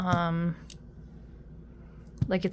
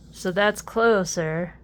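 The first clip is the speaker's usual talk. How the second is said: odd emphasis; 5 dB louder than usual. Real, not acted. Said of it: "I don't know why I said it like that".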